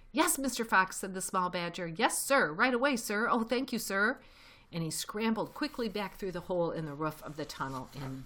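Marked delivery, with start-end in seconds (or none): 0.1-1.0 high, loud obedient reply; eager. A narrator's reading. Small badger takes orders from Fox, eagerly. 1.9-4.2 high, raised grateful replies; eager. A narrator's reading. Small badger thanks Fox before dashing off, eagerly.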